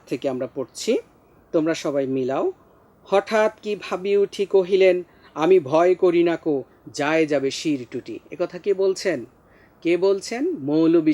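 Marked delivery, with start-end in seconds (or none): 3.0-8.2 measured verse reading, line by line; poem recitation. Acted. Teacher reads the poem to class, measured recitation. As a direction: recite it firmly in verse rhythm.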